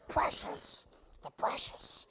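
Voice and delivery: loud, rasping creature hissing over treasure. Acted. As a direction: rasp it out greedily, voiceless and forceful. Creature impression in mid sermon.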